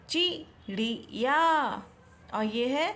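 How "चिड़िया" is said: चिड़िया drawn out slowly, ending on a rise; slow option reading. Shown as a demonstration. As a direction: read चिड़िया slowly, like one choice of several. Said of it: "तो इसमें से कौन सा सही होगा?".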